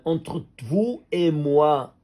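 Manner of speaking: "entre vous et moi" drawn out slowly with a falling end; slow and weighty, each word given its time; slow emphasis. Shown as a demonstration. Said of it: "c'est-à-dire".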